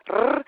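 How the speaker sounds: "r" as a trilled Spanish r; rolled Spanish r. Shown as a demonstration. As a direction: trill the "r" with the tongue tip. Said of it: "the R is more of a trill".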